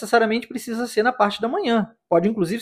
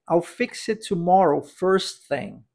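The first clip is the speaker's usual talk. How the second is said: slow repeat-after-me; much slower than usual. Shown as a demonstration. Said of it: "Vamos repetir essa?".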